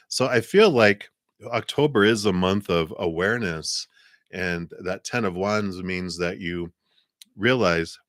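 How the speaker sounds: talking around a cough drop; words round a lozenge; mouth full. Real, not acted. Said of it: "I've got a cough drop in my mouth".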